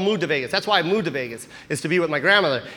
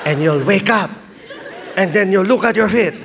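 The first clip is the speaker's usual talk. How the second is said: louder mock-spooky grandma; 2 semitones higher, 5 dB louder than usual. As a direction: build the ghost tale in a grandma's voice. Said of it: "Grandma, please don't talk".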